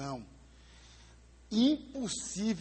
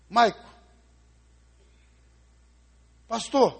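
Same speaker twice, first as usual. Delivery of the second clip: stunned grandmother; 5 semitones higher, 8 dB louder, slower than usual. Acted. Frightened grandmother repeating herself.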